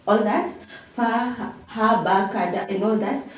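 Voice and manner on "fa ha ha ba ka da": "Fa, ha, ha, ba, ka, da" as separate syllables; kindergarten syllable recital. Shown as a demonstration. Teacher showing what syllables are, "Fa, ha, ha, ba, ka, da" recited separately. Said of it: "Those were syllables".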